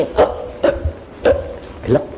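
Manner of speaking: short voiceless gasps, then blackout; acted last gasps. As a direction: imitate three caught breaths and go out. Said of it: "Cuma gini".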